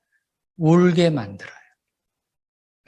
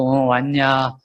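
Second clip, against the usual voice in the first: God speaking; 4 semitones lower, much slower than usual. Retold or imitated. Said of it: "하나님이 그러시고".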